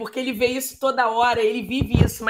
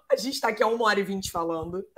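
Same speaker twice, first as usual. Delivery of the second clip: laughing; faster than usual. Real, not acted. Laughing at long chat.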